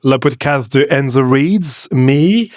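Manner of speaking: French spoken in a hammed-up American accent; put-on American accent, jokey and deadpan; fake American accent. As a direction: play an American mangling his French on purpose. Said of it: "je me suis réveillé avec l'accent de l'Amérique".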